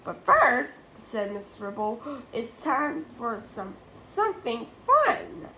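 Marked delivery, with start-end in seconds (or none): 0.0-0.8 teacher voice. A narrator's reading. 2.3-5.5 teacher voice. A narrator's reading.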